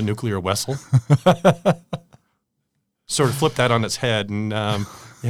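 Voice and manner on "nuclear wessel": put-on light Russian accent on "nuclear vessel"; Chekhov's Russian accent. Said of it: "Star Trek one where Chekhov".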